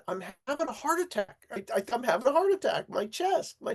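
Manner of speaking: rushed, rising panic, high on "my chest"; panicked friend. Retold or imitated. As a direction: blurt it out like he thinks he's dying. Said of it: "he said".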